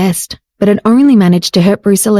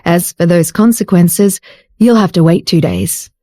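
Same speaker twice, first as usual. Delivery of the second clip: wickedly; 2 semitones lower than usual. Acted. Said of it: "said very wickedly".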